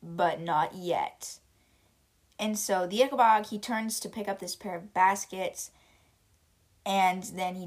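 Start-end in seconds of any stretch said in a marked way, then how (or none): 0.0-1.4 slow, deep menacing monster; a lightly voiced slow booming monster. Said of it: "in his deep voice".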